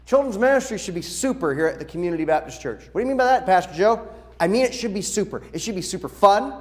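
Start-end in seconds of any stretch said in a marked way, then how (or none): 2.9-4.1 high, louder question; puzzled congregant. Pretend. Congregant asking Pastor Joe what he means, higher puzzled. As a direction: act out a confused listener.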